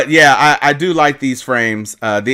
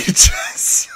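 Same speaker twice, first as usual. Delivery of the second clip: normal talking voice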